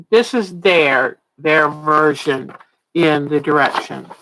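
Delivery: hide a yawn as you talk; stifled yawn. Real, not acted. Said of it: "I was trying to hide that yawn".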